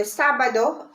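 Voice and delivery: sábado stressed on its first A; first-syllable stress. Shown as a demonstration. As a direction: lean on the opening SA of sábado. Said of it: "stress on the first letter A".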